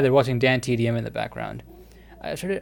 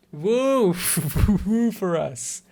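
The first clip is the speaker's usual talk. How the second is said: cheering; 7 semitones higher, 5 dB louder, much slower than usual. Real, not acted. Cheering the kiss choice.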